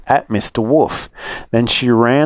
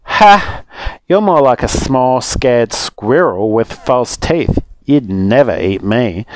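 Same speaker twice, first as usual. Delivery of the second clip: mocking; slower than usual. Little Rude mocking Mister Wolf's false teeth, scornful. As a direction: laugh him off, scornful.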